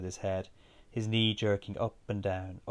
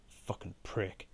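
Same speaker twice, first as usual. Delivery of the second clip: whispered curse, much softer; under the breath; 11 dB quieter, slower than usual. A narrator's reading. Narrator cursing Rob over pool, under the breath. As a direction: swear quietly so nobody else hears. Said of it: "I said, under my breath".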